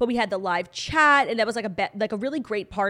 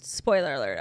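low mock echo; 7 semitones lower than usual. Echoes the warning deep and low.

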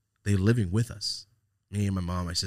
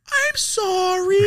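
sarcastic sorry; 9 dB louder, slower than usual. Retold or imitated. Mocking irritated parent.

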